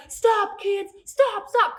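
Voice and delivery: mock call to halt fleeing kids; imitated cop. Cop chasing kids into the forest, lightly imitated calling out. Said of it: "I even remember him going like".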